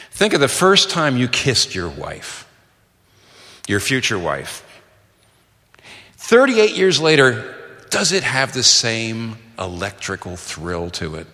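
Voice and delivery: slow, deliberate challenge; measured confrontational questioning; combative question. Acted. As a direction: pose it as a pointed challenge, taking your time. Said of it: "a kind of combative question".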